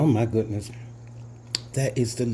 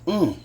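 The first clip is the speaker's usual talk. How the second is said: hot food mmm; 6 semitones higher, 4 dB louder than usual. Real, not acted. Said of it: "Why do I tend to putting hot stuff".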